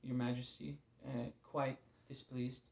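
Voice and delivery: a hint of a stiff courtly petitioner; lightly put-on archaic politeness, unhurried; mock-royal address to God, understated; overly formal prayer. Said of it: "in a perfect world, I'd say".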